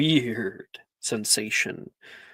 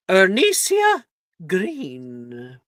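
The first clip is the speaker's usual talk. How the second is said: calling out a name; 4 semitones higher, 4 dB louder, much slower than usual. Acted. McGonagall calls name.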